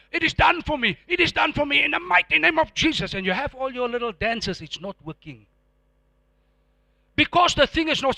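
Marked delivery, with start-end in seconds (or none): 0.1-3.1 high-pitched mock declaration; declaring believer. Preacher imitating believers claiming breakthrough, high insistent declaration. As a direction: chant it out like an over-eager believer. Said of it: "Now you're saying".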